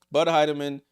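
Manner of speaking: Bud Heidemann called loud, like an announcer; hyped call of the name. Shown as a demonstration. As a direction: belt out Bud Heidemann as a nickname. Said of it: "I'm gonna start calling her that".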